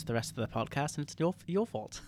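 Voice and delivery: badly faked English accent; sulky mock-British voice; fake British accent. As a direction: talk in a put-on British accent. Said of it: "I'm gonna talk like this".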